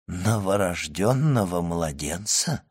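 stunned questioning rise; shocked echo. Acted. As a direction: repeat it in disbelief. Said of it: "повторил Дебре".

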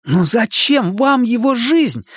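put-on high, urgent boy's blurt. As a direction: fire the question off fast. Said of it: "выпалил Макс".

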